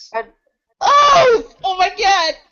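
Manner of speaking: wildly excited, very high, shrill, overexcited squeal. Reacting to a show intro while another speaker says calm down: overexcited. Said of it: "Calm, calm down, Glock".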